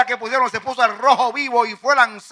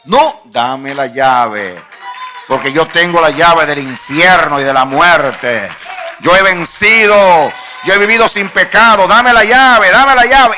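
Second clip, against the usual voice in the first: slow, loud commanding shout; Jesus roaring at the devil for the keys; Jesus demanding the keys; 4 semitones lower, 5 dB louder, slower than usual. Acted.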